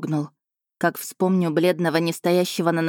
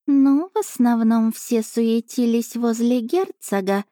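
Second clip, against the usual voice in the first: lightly raised, slow cat familiar voice; a chatty cat reporting in, a touch higher; 5 semitones higher, slower than usual. Acted. Cat familiar reporting to princess, lightly raised voice.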